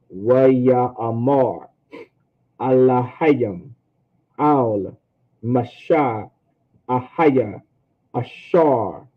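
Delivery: very slow, word-by-word recitation; taking your time. Shown as a demonstration. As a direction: pause after each Hebrew word, drawing it out. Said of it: "if you take your time".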